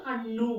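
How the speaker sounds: హన్ను with a firm retroflex ణ. Shown as a demonstration. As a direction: curl the tongue back for the nn in హన్ను. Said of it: "అనా పలకాలి ఇక్కడ".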